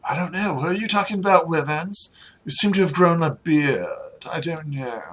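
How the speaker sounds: lightly voiced, uncertain aristocrat; dithering well-to-do acquaintance; muddled noble. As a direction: puzzle over a half-remembered stranger. Game master plays the noble.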